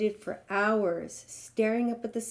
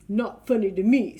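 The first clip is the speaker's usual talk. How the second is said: huffy giraffe snort; 8 dB louder than usual. Acted. Tangled giraffe to the elephant, mildly huffy. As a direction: snort it out, offended. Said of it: "snorted the giraffe".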